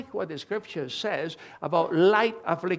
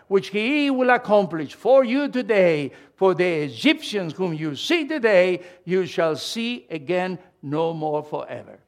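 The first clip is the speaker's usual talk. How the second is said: scripture reading; 4 dB louder than usual. Acted. Reads Moses's words aloud.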